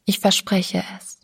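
a whispered promise; a frightened girl whispering her promise; said softly. Acted. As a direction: breathe the promise, barely voiced. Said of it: "sagte sie leise".

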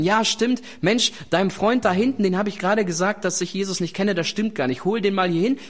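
lightly acted keen correction; eager admission. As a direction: blurt it out as if setting things right. Imagined eager retraction of the denial.

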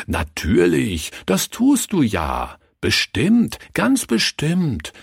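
reassuring, rising high and emphatic; comforting. A narrator's reading. Pastor consoling sobbing Leni, comforting her. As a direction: soothe a child with insistent reassurance. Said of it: "tröstete er sie".

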